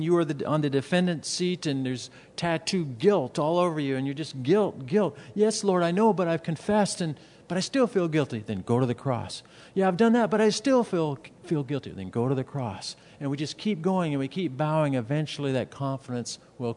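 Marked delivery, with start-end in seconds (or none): 4.4-8.4 higher-pitched mock pleading to God; guilt-ridden protest. Voices guilt-ridden believer arguing back. 9.7-11.9 higher-pitched, lightly acted objection; guilt-ridden protest. Voices believer objecting to advice.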